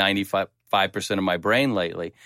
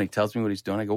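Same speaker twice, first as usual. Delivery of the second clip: ordinary delivery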